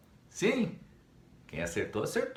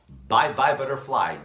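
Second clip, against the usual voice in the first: playful goodbye; 2 semitones higher, 9 dB louder than usual. Real, not acted.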